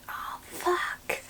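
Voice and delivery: pained whisper of oh fuck; whispered curse. Retold or imitated. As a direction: hiss it under your breath after a knock. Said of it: "you wanna say".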